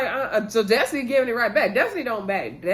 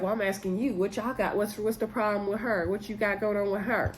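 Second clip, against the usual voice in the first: Stormy's voice; 6 dB quieter than usual. Retold or imitated. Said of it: "I'm just doing everybody's voice in the video".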